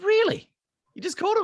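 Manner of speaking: very high, loud incredulous question; amazed disbelief. Retold or imitated. Chris amazed he just called Steve, very high. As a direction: squeak it out in disbelief.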